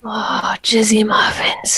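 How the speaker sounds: unvoiced mock-sultry whisper. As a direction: whisper it like a tease. Mock seductive banter.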